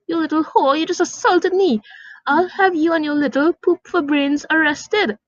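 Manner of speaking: high, shrill outraged yell; shrieking mother. Acted. Angry mother shrieking at the kids after the kick. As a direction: screech the insults at the girl.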